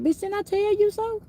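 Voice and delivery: mock told-you-so. Mother's told-you-so to her kids.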